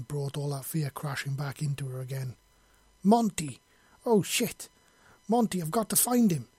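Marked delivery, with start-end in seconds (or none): 3.0-6.5 high, urgent cry; alarmed yell. A narrator's reading. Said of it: "she yelled".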